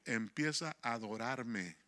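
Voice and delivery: the Spirit's gentle command, said slow and soft. Retold or imitated. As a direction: hush it down and slow it like a divine whisper. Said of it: "el Espíritu Santo me dijo".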